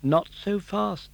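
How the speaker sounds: slow, whispered cricket warning; cricket stopping him. Acted. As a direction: hold him back in a hush. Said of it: "said the cricket".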